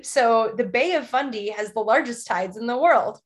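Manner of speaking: reading off a prompt; lightly put-on advert delivery; mild ad read. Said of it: "like you're reading a prompt".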